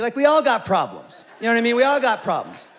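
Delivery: sarcastic jab at the rich man's complaint. Real, not acted. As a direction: roll your eyes, we all got problems.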